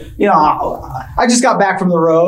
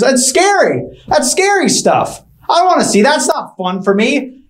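put-on scared kid; 6 semitones higher than usual. Kid scared at sleepover yelling.

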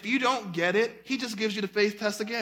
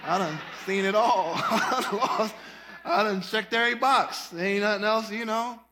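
seasoned saint. Retold or imitated. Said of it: "They're like".

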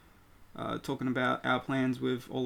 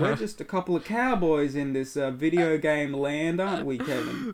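cowboy voice; 2 semitones higher than usual. Pretend. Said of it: "the cowboy voice".

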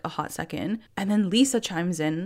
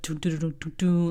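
hummed music. Retold or imitated. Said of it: "the music was like".

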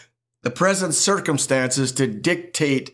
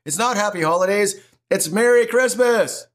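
correcting the TV greeting with a raised voice; retorting at TV; 5 semitones higher than usual. Retold or imitated. Preacher retorting at TV ads, indignant and rising. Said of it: "And I'm like".

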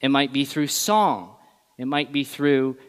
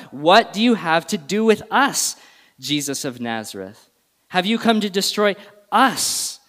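higher-pitched demon's outcry, moderately raised; crying out; 4 semitones higher than usual. Acted. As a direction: cry out the challenge, stretching to a stressed US. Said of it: "and he cries out".

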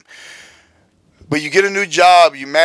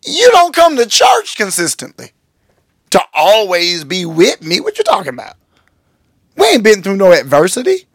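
incredulous retort; 3 semitones higher than usual. Retold or imitated. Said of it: "And you're thinking".

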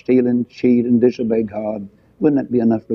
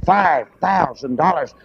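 greedy congregant; 5 semitones higher than usual. Retold or imitated. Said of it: "you just say".

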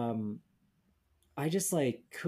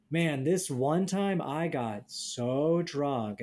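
grizzled storyteller; much slower than usual. Retold or imitated. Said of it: "they're like".

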